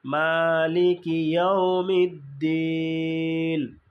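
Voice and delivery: মালিকি ইয়াউমিদ্দিন chanted slowly with দিন held; slow recitation. Shown as a demonstration. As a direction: recite it like in prayer. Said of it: "দিনে তিন আলিফ".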